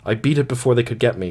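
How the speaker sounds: gasped. Acted. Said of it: "she gasped".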